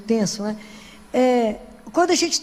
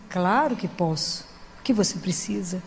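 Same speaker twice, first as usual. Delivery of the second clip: tender reply; 6 semitones lower, 5 dB quieter than usual. Retold or imitated. Answering a beggar tenderly.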